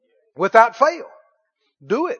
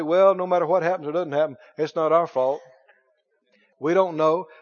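resigned excuse; 3 semitones lower than usual. Retold or imitated. Preacher voicing people who dodge responsibility, resigned excuse.

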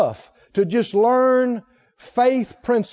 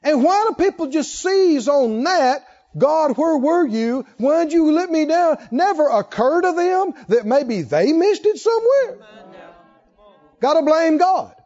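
higher and louder, pressing each point home; fiery preaching; 7 semitones higher, 3 dB louder than usual. Acted. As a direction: preach it hard to the congregation. Preaching at full force.

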